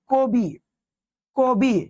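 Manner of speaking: কবি said slowly with a short ই; pronunciation demo. Shown as a demonstration. Teacher to students, modelling কবি slowly. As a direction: lengthen কবি but keep ই short. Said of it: "এটার উচ্চারণ হচ্ছে কবি".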